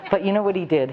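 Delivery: laughing through the question; a real laugh breaking into it. Real, not acted. Laughing as she tells the room her story.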